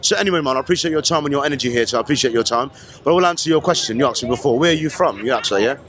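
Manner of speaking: put-on London "All right then"; London accent. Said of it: "doing the accent".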